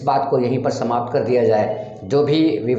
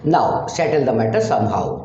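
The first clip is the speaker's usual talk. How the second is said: 1 slow demo; 2 semitones lower, much slower than usual. Shown as a demonstration. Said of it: "teacher demonstrates English sentence".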